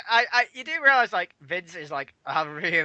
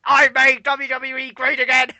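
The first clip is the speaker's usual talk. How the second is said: higher, slow triumphant boast; Trump boast; 6 semitones higher, 4 dB louder than usual. Retold or imitated. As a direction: gloat it out like a winner on stage. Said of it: "he goes".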